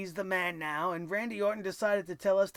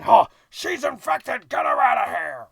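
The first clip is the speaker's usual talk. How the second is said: mock Vince McMahon yell; 11 dB louder than usual. Mocking how the boss reacts to a cough, loud hammed-up yell. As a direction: bellow it like a germ-scared boss throwing her out.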